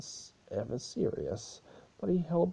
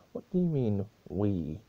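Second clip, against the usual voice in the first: sharp, louder demand; 5 dB louder than usual. Acted. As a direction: snap the question back at him. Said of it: "Demanded Celestia".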